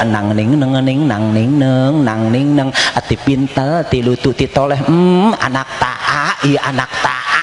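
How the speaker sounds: put-on slow cooing baby talk to a toddler. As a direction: coo at the child lisping l for r. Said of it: "bari ngomong".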